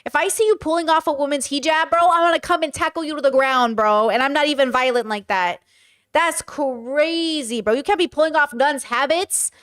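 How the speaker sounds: real protective outrage; indignant threat. Real, not acted. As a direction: warn them off, fired up and emphatic. Threatens to tackle whoever did it.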